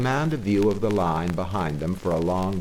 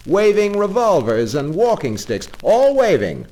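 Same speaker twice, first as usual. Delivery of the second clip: high, loud, breathless listing; excited driver; 8 semitones higher, 6 dB louder than usual. Acted. Engine driver describing the pursuers to Toad, excited and loud. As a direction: pile up the alarming sights one after another.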